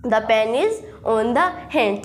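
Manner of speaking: each word slow and separate, dictating to a class; slow teacher dictation; slow model sentence. Shown as a demonstration. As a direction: spell it out slowly like a teacher. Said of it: "हाथ के ऊपर pen है".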